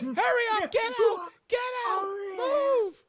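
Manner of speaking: very high, loud shouted orders; urgent screaming. Acted. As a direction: scream to hurry them out. Abby ordering driver out.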